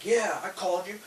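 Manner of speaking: high-pitched mock Irish customer; rough attempt at an Irish accent. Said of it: "he's had an Irish accent, not a, you know, like, gangster accent".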